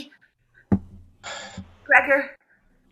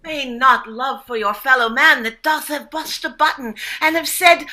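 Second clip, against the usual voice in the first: mock olde english. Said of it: "using Shakespearean speak".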